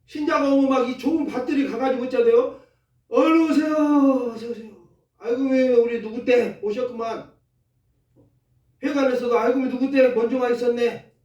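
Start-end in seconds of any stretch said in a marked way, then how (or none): 3.1-11.1 cheerful welcome. Retold or imitated. Voices members welcoming newcomer.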